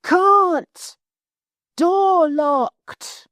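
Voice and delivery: high, loud shouted reply; shouting. Acted. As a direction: yell down from the locked tower. Cyril shouting from tower.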